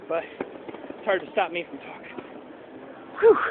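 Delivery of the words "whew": gasping for air. Real, not acted. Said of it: "It's hard to talk when you're out of breath".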